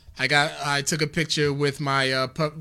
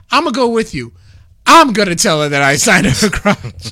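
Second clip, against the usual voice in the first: higher, loud quote cracking into laughter; loud retold declaration; 4 semitones higher, 11 dB louder than usual. Retelling the signer's plan to find Gigi, loud and amused. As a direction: act out his big announcement, loudly.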